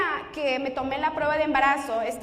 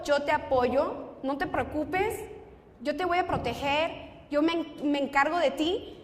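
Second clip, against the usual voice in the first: retold reassurance. Boyfriend promising to protect his pregnant girlfriend, reassuring. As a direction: quote a boyfriend's reassurance, taking your time.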